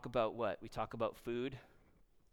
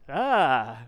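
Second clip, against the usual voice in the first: mock scream; 12 dB louder than usual. Mimes being scared by the question.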